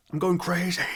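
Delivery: high, exasperated cry; fed up. Real, not acted. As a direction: throw up your hands, going crazy. Ranting about nostalgia.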